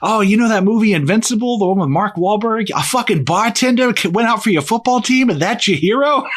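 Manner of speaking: high, loud ranting roast voice; mock comedian rant. Friend retelling a comic's roast of Philly, high mocking rant. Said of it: "he's like".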